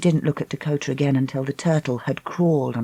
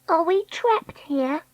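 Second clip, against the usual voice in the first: put-on high, slow frightened girl; scared girl voice; 11 semitones higher, 3 dB quieter, slower than usual. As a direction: ask it small and worried.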